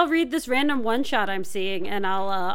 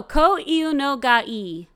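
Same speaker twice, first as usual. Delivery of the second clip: slow careful pronunciation; 3 dB louder, much slower than usual. Shown as a demonstration. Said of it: "pronounce it better".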